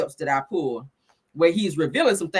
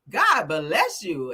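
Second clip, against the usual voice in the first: mock pity; 2 semitones lower, much slower than usual. Real, not acted. Pitying a fruitcake lover.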